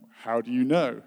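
loud, doubting question; incredulous challenge. Retold or imitated. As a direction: demand proof, loudly. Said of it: "was going".

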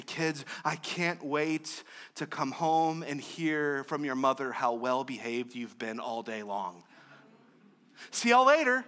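a lightly acted dad hinting to the kids; mock dad talking to his kids on the way out; playful parent.

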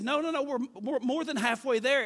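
high, quick-fire reassurance from a friend; insistent objection. Retold or imitated. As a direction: imitate a friend overruling a worry. Friend objects to turning back.

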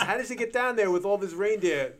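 high, inquisitive puppet voice; Grover. Retold or imitated. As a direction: imitate a muppet interviewer asking a child. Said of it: "Grover asks".

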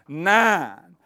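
shouted punchline; emphatic answer. Real, not acted. Preacher quizzing the crowd, loud answer. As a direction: call out the answer with glee.

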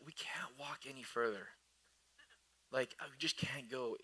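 soft, drained mock complaint; weary grumbling. Israelites complaining on the long walk, weary. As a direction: imitate worn-out complainers, barely voiced.

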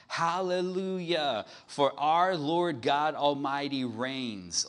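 loud, slow, high hallelujah; shouted hallelujah. Acted. Preacher voicing heaven's crowd, loud slow shout. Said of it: "shouting now".

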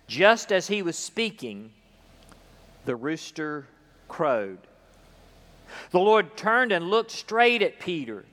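measured, solemn Bible reading with long pauses; solemn Gospel reading; scripture reading. Acted. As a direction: read the Gospel to the congregation.

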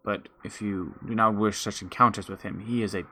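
a hint of a measured forest elder; wise forest elder. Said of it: "he says".

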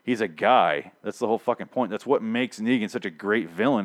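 ordinary delivery

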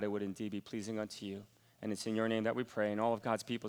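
quiet, heartfelt pastor's prayer, head bowed; soft prayer. Acted. Pastor prays softly over the listeners, quiet prayer voice. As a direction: pray softly over the congregation.

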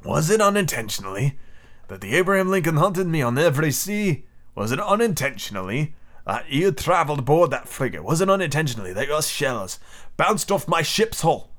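put-on mounting accusation in a foreign accent. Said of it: "raising his voice".

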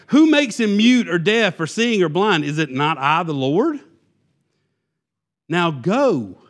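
mildly exasperated rhetorical questioning, then a command; frustrated God. Retold or imitated. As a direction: press the point as an impatient authority. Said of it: "he's frustrated".

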